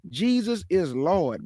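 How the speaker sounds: slow, stretched "Jesus is Lord"; reading out a tattoo. Retold or imitated. Commentator reading the man's arm tattoo aloud, slow and deliberate. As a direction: read "Jesus is Lord" word by word, drawn out. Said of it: "look what it say on his arm".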